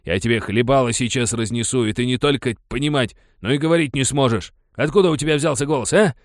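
put-on bully threatening to smash the boy's face. A narrator's reading. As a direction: menace him, then rush. Threatens the boy.

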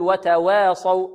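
"وتواصوا" with the long a tilted toward e; fronted vowel mistake. Shown as a demonstration. Teacher warns against imala, fronted vowel in "وتواصوا". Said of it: "لا نقللها ولا نميلها".

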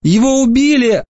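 put-on tearful girl pleading for her brother. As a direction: plead with him, hopeful. Bronwyn's voice.

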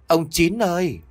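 high, stretched call across the pond. Acted. Calls again into the dark.

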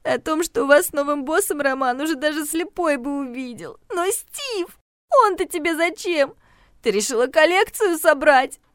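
high, sneering, tearful accusation; mock her for collecting men; bitter tirade. Regina taunts the heroine over the boss and Steve, bitter. Friend's jealous tirade continues.

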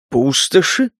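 puzzled questioning echo; surprised, rising question. Acted. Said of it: "удивился Гектор".

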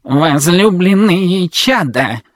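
slow booming robot voice, high; creaky metallic robot. Acted. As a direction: bark it out like a creaky machine. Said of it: "пролаял скрипучий металлический голос".

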